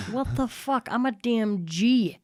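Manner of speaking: mock exasperation at herself. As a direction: play up the shock at her own tears. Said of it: "I'm like".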